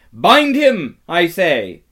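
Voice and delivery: loud, high impatient order; commanding repeat. A narrator's reading. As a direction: force the command on them. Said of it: "repeated the White Witch".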